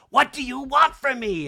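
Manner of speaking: high, loud acted outburst; exasperated confrontation. Kyle confronting Dorit at the showdown, acted exasperation. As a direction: demand it in hammed-up exasperation.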